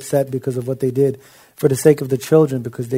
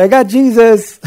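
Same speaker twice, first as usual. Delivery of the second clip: much higher and louder, with a laugh; imitating Carrie; 7 semitones higher, 6 dB louder than usual. Carrie telling his eye doctor, imitated high, loud and laughing. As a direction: mimic his proud declaration fondly. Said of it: "he would go ... and say".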